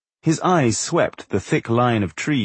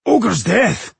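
high-pitched excited outburst; excited shriek; 11 semitones higher, 4 dB louder than usual. A narrator's reading. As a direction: blurt the name out in high excitement. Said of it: "Bowindil shrieked excitedly".

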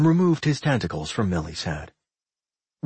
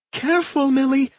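high, urgent caution; warning; 14 semitones higher, 4 dB louder than usual. A narrator's reading. Claire warns Millie off the growling pups, alarmed. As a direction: call out a quick warning, pitched high. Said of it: "Claire warned".

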